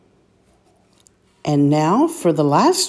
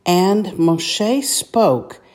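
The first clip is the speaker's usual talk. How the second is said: slow reading; 2 semitones higher, much slower than usual. Shown as a demonstration.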